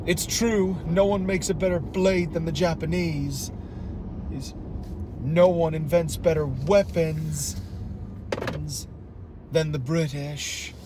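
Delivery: lightly put-on Irish accent. Shown as a demonstration. Asked for Irish, quoting Fowler, mild Irish accent. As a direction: quote a villain with a touch of Irish. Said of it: "wasn't that an Irish accent".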